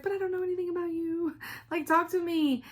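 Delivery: high, fast, playful protest; laughing mock complaint; exasperated mock protest. Retold chat with fans at retreat.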